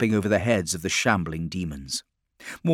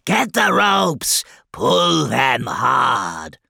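high, loud, drawn-out shout; slow, high-pitched shouted command; 6 semitones higher, 6 dB louder, much slower than usual. A narrator's reading. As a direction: yell orders to a hauling gang. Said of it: "commanded Septicus".

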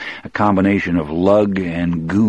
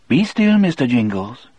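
put-on Cajun accent; 6 semitones higher than usual. Delacroix soothing his mouse.

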